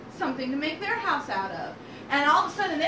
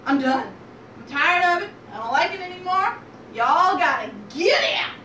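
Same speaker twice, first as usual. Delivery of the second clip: exasperated mama pig. Acted. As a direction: lay down the law to grown kids. Mama pig evicts her piglets.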